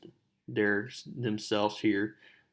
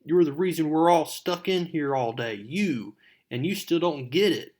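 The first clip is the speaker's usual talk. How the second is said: loud, higher mock argument; angry retort; 4 semitones higher, 4 dB louder than usual. Mary Jane yelling at Flash in detention, angry. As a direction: tell him off like a furious classmate. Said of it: "And then she says".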